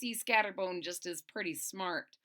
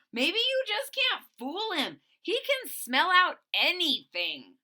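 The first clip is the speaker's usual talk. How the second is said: nervous squeaky voice; 9 semitones higher, 6 dB louder than usual. Acted. Boland's voice, pleading.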